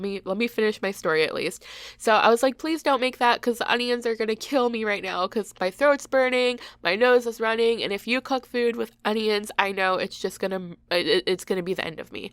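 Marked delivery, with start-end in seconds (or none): 2.6-12.3 a touch of mock melodrama pleading; overdramatic. Daughter begging her dad not to cook onions, mildly overdramatic. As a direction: ham up the plea, lightly. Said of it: "being completely overdramatic".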